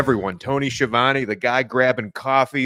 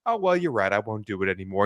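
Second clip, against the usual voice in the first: softened, meek giving in; a hint of sheepish retreat; mock meek Jack; 4 semitones lower, 4 dB quieter, faster than usual. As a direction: back down instantly. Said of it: "immediately goes".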